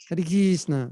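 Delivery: Russian-accented mantra. Shown as a demonstration. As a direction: imitate a Russian devotee saying it. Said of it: "if you're from Russia, how do you say it".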